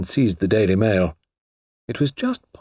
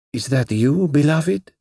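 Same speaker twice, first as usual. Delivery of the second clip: soft caress; 6 semitones higher, slower than usual. Acted. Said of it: "it said softly".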